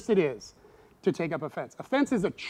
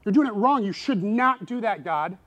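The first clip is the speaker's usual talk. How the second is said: louder, higher mock scolding; scolding God; 4 semitones higher, 5 dB louder than usual. John telling God he's doing it wrong, scolding. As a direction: wag a finger at God. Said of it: "He's like".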